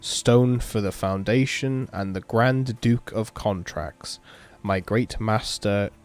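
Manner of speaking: slow, measured ritual recital; incantation reading. Acted. Player reading the mage's summoning spell aloud, measured incantation. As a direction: recite the spell in deliberate phrases. Reads a summoning chant from the game.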